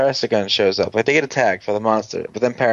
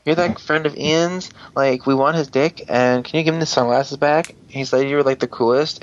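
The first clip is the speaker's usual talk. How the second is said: put-on gushing girls; 4 semitones higher than usual. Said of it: "these two girls come up and are like".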